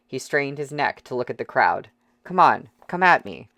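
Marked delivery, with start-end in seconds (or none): 2.2-3.5 loud, higher taunting challenge; defiant taunt. Acted. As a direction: dare the whole crowd to hit you. Prisoner taunting the mob.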